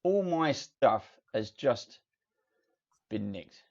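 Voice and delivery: loud grumbling dwarf blacksmith; gruff dwarf smith. Acted. GM voices dwarf smith Wellham.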